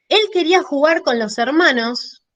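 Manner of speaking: "hermanos" kept up, unresolved; mid tone hanging. Shown as a demonstration. Teacher showing a sentence left open in mid tone. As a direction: stop mid-thought, voice suspended. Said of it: "¿ven que uno deja ahí?".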